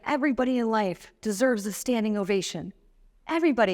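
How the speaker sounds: lightly voiced child, earnest and sure; a hint of a small boy saying something big; earnest little boy. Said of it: "He's like".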